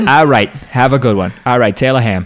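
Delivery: a lightly voiced New York guy signing off a call; mild mock phone accent, quick and chummy; on the phone at work. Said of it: "me on the phone at work".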